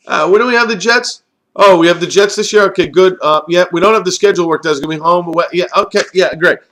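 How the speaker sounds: high, mock casual voice of a rival coach checking the schedule; mocking rival teams. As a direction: play it as a smug team pretending surprise. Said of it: "I am sure teams are going over their schedules going".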